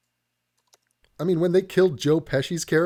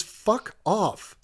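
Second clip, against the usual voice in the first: mock angry retort; 3 semitones higher, much slower than usual. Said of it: "The only response to that is".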